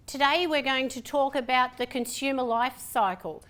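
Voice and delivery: mildly subdued, evenly paced lecture opening; static webcam voice. Shown as a demonstration. Lecturer demonstrating how sitting still sounds, subdued webcam voice. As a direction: deliver it like someone sitting stiffly at a webcam. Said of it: "That's what it sounds like".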